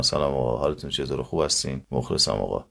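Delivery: lightly mumbled careless greeting; lazy casual speech. Shown as a demonstration. Teacher imitates lazy careless speakers. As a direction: toss off «مخلصم آقا» lazily.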